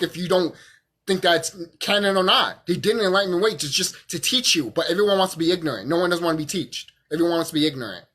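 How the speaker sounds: tipsy, tripping over words. Real, not acted. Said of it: "I'm over here fucking drunk and stuttering".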